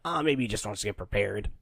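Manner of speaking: low, soft, offhand reply; low-pitched quiet shrug of a line; mock casual reasoning. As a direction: imitate an unconcerned onlooker, hushed. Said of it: "And they're like".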